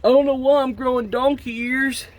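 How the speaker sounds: hammed-up coughing patient; sick confused victim. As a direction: play a sick man baffled by his new symptoms. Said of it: "years down the road".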